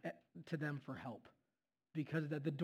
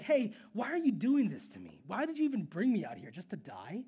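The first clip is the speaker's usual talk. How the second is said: mock grumbling. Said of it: "constant grumbling".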